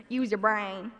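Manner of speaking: hint of a Missouri Southern twang; little Southern accent. Mom's old saying to her kids, little Southern accent. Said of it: "in a little Southern accent".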